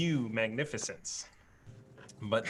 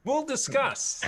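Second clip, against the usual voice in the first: laughing; 13 semitones higher, 4 dB louder, slower than usual. Real, not acted. Teasing evasive answer.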